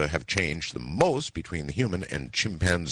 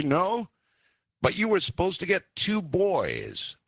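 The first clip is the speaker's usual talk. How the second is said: mock sweet, through gritted teeth; 13 semitones higher than usual. A narrator's reading. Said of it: "in my most loving, calm, sweet voice".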